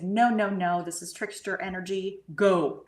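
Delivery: loud, emphatic no, dropping then punching the final word; firm refusal, retold. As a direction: retell banishing an unwanted presence forcefully. Retold banishing of a voice.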